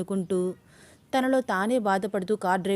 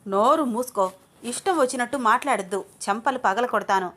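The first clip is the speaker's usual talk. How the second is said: louder, furious scolding; angry; 3 semitones higher, 3 dB louder than usual. Acted. Junnu furious at Shweta, angry and louder. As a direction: snap at her to shut up. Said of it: "విపరీతమైన కోపం వస్తోంది".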